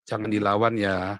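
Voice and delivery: lightly voiced father calming his child; father's gentle caution. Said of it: "ayah saya selalu bilang apa".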